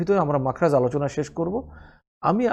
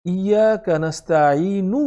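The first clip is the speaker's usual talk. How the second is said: slow recitation; much slower than usual. Shown as a demonstration. Teacher reciting slowly for students to copy. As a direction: stretch each syllable slowly. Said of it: "আমরা ইয়াকা নাস্তাইনু".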